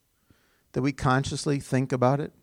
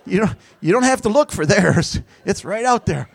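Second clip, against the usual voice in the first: preaching louder; 5 semitones higher, 9 dB louder than usual. Real, not acted. Preacher to congregation about sins, loud and insistent. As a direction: raise the voice, driving the point home.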